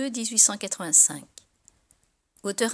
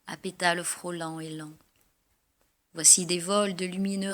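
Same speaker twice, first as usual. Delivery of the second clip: measured, lyrical verse reading; poem recitation. Acted.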